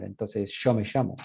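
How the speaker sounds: yo me llamo with yo and llamo said with sh; corrected to sho me shamo; Argentine sh. Retold or imitated. Friend corrects himself to Argentine sh. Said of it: "yo lo estoy diciendo mal".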